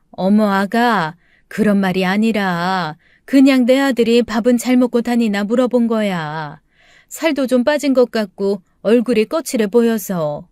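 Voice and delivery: lightly voiced mother explaining herself; defensive mother-in-law. Mother-in-law explains her concern for son, mildly defensive.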